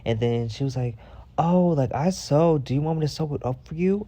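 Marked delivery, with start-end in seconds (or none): 1.4-4.0 higher-pitched voice of an eager helper; acting out a friendly volunteer; imitated helpful offer. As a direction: offer help in a put-on high voice.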